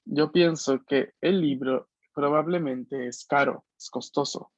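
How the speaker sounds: spoken slowly, word by word, as a teacher's model; slow model sentence. Shown as a demonstration. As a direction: lay out the sentence slowly for the class. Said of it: "¿Cómo diría yo esa frase?". (frase modelo dicha despacio)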